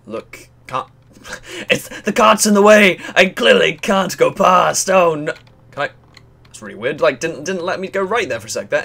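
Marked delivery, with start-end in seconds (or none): 2.0-5.3 frustrated outburst. Real, not acted. Blocked by a cart, frustrated.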